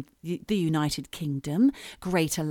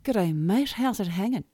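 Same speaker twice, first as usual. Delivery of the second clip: G'day, mate with mate as maɪt, rising; Australian accent. Shown as a demonstration. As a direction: try the greeting again, looser. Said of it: "a little too enunciated".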